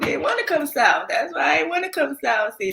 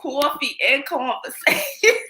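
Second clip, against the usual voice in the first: put-on teasing copy of a New York accent. Co-host teasing the other's invitation, mock New York accent. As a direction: mimic the New York vowels. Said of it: "that New York sure come out".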